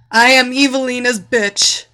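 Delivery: high, loud desperate cry; screamed submission. A narrator's reading. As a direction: shout the humiliating words out. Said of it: "screamed as loud as she could".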